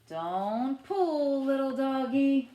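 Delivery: mock scolding. Playing walking imaginary dog.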